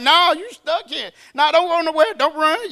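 acted-out emphatic no-escape order; bold insistence. Paul boldly cornering his guard.

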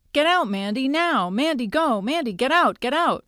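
high, urgent commands without full volume; mock scream. A narrator's reading. Terry prying open the alligator's mouth, mock screaming at Mandy. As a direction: urge a friend out, pitch swooping high. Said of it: "screams at Mandy".

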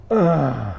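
put-on child's scoffing "ugh", breathed out; mimicked huff of disbelief; imitated exasperated sigh. Daughter brushing off her dad's joke, imitated exasperated sigh. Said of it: "And she does this. She goes".

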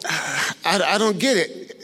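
slow, puzzled words through a laugh; laughing confused. Retold or imitated. Man laughing, baffled by Jesus's answer. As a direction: laugh it off in disbelief.

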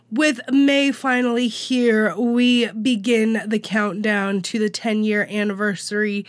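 catching in the throat; choking. Real, not acted. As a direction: push through a tickle in the throat. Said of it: "Sorry, I'm choking on myself".

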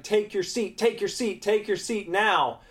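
high, insistent mock yell; imitated teacher yelling. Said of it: "She's, like, yelling at me".

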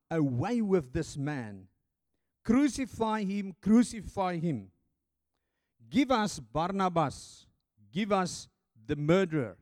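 loud, slow, chanting crowd demand; crowd crying out. Acted. The crowd cries out to Pilate, loud and slow. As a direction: bellow it slowly like an angry mob. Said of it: "the crowd cried out".

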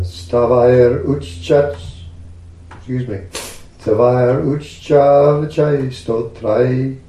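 slow, measured scripture chant; Sanskrit verse recitation. Real, not acted. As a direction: intone the verse slowly.

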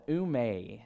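ume said as oo-MAY; Greek pronunciation. Shown as a demonstration. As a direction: pronounce ume as two syllables, oo-may. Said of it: "that is how you pronounce it".

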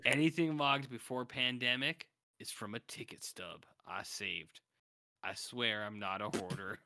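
a hint of a Southern accent, reading aloud. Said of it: "drift into this southern accent".

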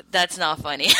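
protesting through laughter; laughing. Real, not acted. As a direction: say it while still laughing.

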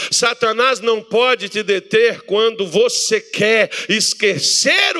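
loud, slow, punched sermon lines; slow loud preaching. Acted. Pastor declaring victory over Satanás, loud and slow. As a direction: hammer each phrase home.

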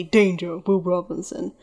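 flat robot voice; a lightly voiced robot; robot monotone. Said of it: "monotone with garbled static".

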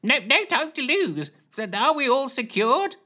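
high excited yell over the din; Lushthorpe yelling. A narrator's reading. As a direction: shout it high and urgent. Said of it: "yelled Lushthorpe".

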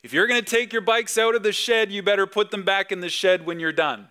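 imitating himself scolding the kids, emphatically; emphatic parental order. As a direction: declare it firmly across the backyard. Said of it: "I declare emphatically".

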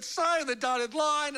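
slow, pressing close; a lightly voiced pushy salesman; mock salesman. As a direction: push him to sign, slowly. Salesman closing the deal.

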